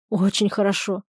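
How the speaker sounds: soft, heartfelt sigh of longing; with feeling. Acted. Wife dreams of fine clothes, softly heartfelt. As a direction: let it melt out dreamily. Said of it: "Полина с чувством".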